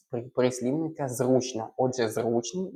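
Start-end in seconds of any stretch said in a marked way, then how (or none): 1.1-1.7 зручно stressed on the first syllable, on У. Shown as a demonstration. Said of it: "бо утворено від". 2.1-2.7 зручний stressed on its У. Shown as a demonstration. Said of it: "буде наголос на".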